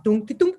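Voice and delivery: "dunk" sound effect; imitated weird noise. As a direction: mimic a fork dropped in a tin drum. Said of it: "like the weirdest noise".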